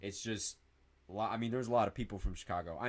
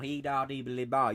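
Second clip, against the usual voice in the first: mocking cowboy-accent babble; imitated country accent gibberish; 2 semitones higher, 4 dB louder than usual. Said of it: "You sound like a fucking cowboy".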